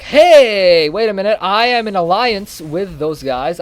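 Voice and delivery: a loud outburst that settles into a slow claim; mock Germany. Germany objecting to Russia, mock-alarmed voice. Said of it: "Germany's like".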